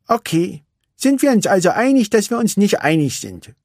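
put-on high, bored young racer; Vanellope's voice. Vanellope tells Ralf she is bored, wistful.

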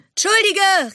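high-pitched shouted apology; called-out apology. A narrator's reading. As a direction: call an apology out in passing. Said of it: "rief er".

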